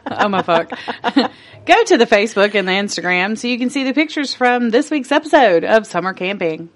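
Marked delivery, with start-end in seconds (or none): 1.7-6.7 polished news anchor read; newscaster voice. Acted. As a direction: announce it like the evening news. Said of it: "That's my newscaster voice".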